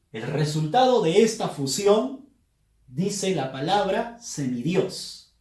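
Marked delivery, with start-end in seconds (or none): 4.2-5.3 "semidios" with the voice's force on final dios; final-syllable stress. Shown as a demonstration. Teacher showing a fused word, "semidios" stressed on dios. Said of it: "acento o fuerza de voz está en".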